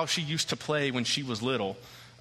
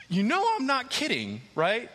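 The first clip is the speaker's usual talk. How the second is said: stern warning; 7 semitones higher than usual. Retold or imitated.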